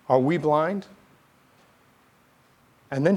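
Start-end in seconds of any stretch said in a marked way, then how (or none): 0.1-0.9 rising question thrown as a challenge; challenging. Acted. Pharisees answering Jesus back, challenging. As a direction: ask it as a mild challenge. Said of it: "They're asking in a way of challenge".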